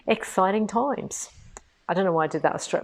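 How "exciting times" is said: slow, drawn-out mock Australian; mock Australian accent. Host signing off on a project update, mock Australian accent. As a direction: put on a higher, playful Australian twang. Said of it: "mock Australian accent".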